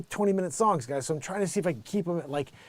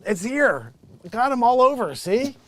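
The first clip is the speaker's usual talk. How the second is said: raised, insistent hard sell; boastful sales pitch; 4 semitones higher, 3 dB louder than usual. Real, not acted. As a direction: build to a loud, proud claim. Ranting sales boast about his patent.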